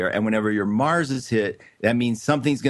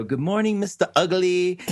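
put-on higher, cheeky kid voice; 7 semitones higher than usual. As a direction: voice a little brat teasing. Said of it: "Devon, would go".

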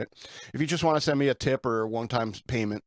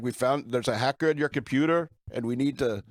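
imitated Indian accent. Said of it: "some dude in India".

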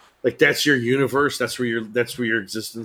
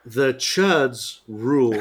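mock conspiracy voice; much slower than usual. Joking conspiracy voice.

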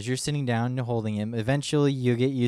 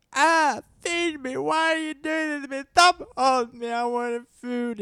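put-on much higher, slow whiny hungry-baby voice; 4 dB louder, slower than usual. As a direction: voice the crying baby demanding food. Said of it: "He's like".

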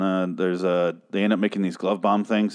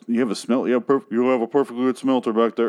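imitating an oddly stilted cadence; halting, odd rhythm, lightly put on; weird cadence. Reviewer imitating Eugene explaining the smelter, in a weird cadence. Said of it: "he just talks in this weird cadence".

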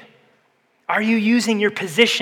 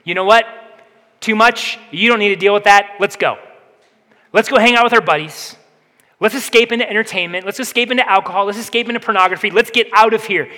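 escapist voice; 2 semitones higher than usual. Pretend. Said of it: "Or maybe you'll hear this voice".

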